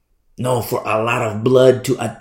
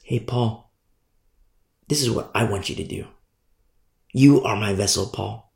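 gentle voice of the Lord; 4 semitones lower than usual. Retold or imitated. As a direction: speak it calmly as God calling. Voicing the Lord to Paul.

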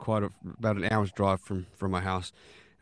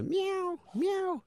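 high squeaky mock kitten meow; 3 dB quieter than usual. Husband imitating the kitten his wife hears, high squeaky meow. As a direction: mimic a tiny kitten mewing, much higher.

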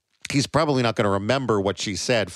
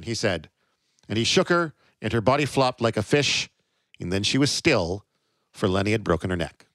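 story reading. Acted. Reads novel passage aloud.

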